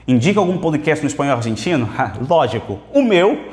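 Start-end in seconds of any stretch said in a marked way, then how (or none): 2.9-3.5 high, loud feigned astonishment; mock surprise. Teacher asked to recommend an Argentine podcast, playful mock surprise. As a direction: pretend it just occurred to you.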